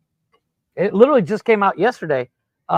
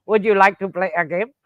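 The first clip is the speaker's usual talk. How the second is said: robot voice. Retold or imitated. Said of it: "Do the robot voice from".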